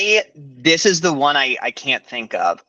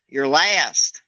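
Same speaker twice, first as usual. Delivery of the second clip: lightly done Southern drawl; a touch of Southern twang; Southern accent. Pretend. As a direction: finish the line in a put-on Southern accent. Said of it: "do Ricky Bobby in a Southern accent".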